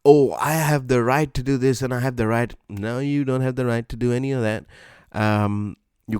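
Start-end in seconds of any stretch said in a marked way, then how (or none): 0.0-2.5 mock entitled. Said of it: "those people in videos who go crazy".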